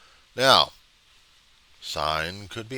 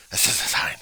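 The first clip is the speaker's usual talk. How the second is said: voiceless, strained repeat at ordinary volume; strained protest yell. Acted. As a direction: drop the scream to a strained rasp. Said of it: "screaming and yelling my head off at people".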